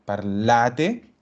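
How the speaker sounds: parlate with the stress landing on la, rising end. Shown as a demonstration. Teacher pointing to the stressed syllable, clear emphasis. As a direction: lean on la in parlate. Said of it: "siempre va a cargar acá en esa".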